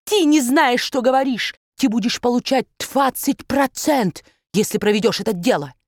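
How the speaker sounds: put-on high, urgent German-accented banker; excited accented baron. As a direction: push him with an accent. (высокий взволнованный барон с акцентом)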